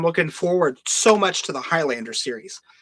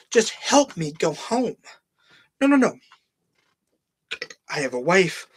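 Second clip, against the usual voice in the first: earnest pleading hero. Retold or imitated. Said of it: "Matt Damon begging Calypso".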